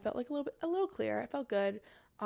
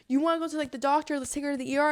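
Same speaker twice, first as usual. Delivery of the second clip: high, louder imitation of an urging helper; concerned bystander; 5 semitones higher, 5 dB louder, faster than usual. Bystander suggesting the hospital to the choker, urgent. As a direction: mimic someone fussing over a patient. Bystander urges going to doctor.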